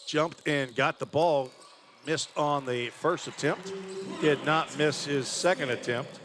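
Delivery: lifted, punchy basketball call; energetic courtside commentary; live play-by-play. Real, not acted. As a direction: call the action with rising energy.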